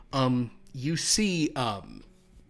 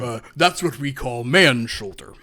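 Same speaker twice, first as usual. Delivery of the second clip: ghoul; 11 dB louder than usual. Acted.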